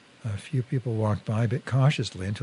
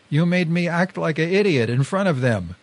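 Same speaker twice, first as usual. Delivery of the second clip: higher-pitched angry accusation; raised, indignant narrated outburst; blasting; 5 semitones higher, 4 dB louder than usual. A narrator's reading. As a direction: blast the blame at him. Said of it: "Deke blasted".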